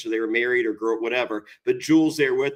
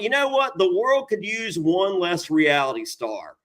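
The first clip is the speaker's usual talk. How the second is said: high-pitched mock fury; Ty Murray; 4 semitones higher than usual. Show's creator wishing ill on reality stars, mock furious. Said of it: "Ty Murray's furious".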